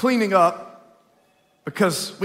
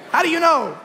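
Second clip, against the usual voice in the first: amused; 8 semitones higher, faster than usual. Retold or imitated. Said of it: "It's like".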